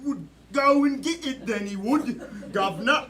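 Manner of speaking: put-on cockney British accent. Improv player narrating a rescue, hammed-up British accent. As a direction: tell it like a comic British storyteller. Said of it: "British, French".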